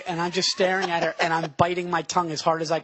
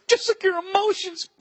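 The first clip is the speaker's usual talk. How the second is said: deadpan zinger; 12 semitones higher than usual. Retold or imitated. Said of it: "Bill just goes".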